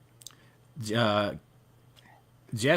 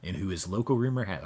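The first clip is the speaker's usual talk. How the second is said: news anchor voice; 2 semitones lower than usual. Pretend. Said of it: "I'll stop with the news anchor voice".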